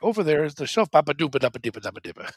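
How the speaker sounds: "Bapa doopa dapa deepa" rattled off fast as fake Dutch; mock Dutch gibberish. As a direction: rush the nonsense syllables like a language. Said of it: "they're like".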